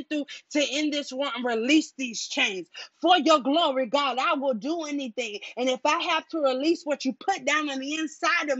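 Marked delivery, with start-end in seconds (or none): 3.0-5.4 fervent declaration. Real, not acted. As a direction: proclaim "For your glory" with force to God.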